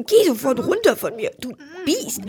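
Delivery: fast, sharp angry order. Acted. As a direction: shove the words out in anger. Trapped fish yells at angel.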